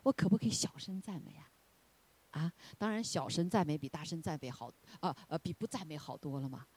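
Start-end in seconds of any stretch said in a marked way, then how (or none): 0.0-1.5 softer questioning voice, whisper on 大声赞美啊; mock quiet objection; quiet objector. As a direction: hush it like a timid doubter. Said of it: "有人就会说".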